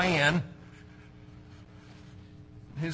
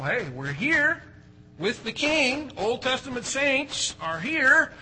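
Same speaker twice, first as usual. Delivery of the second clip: eager Peter; 8 semitones higher than usual. Retold or imitated. Preacher voicing Peter's eager plan, lightly acted. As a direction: play Peter sure the kingdom has come.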